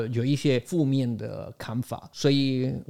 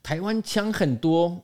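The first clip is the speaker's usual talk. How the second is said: dismissive viewer; 7 semitones higher than usual. Retold or imitated. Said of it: "很多观众还是跟我说".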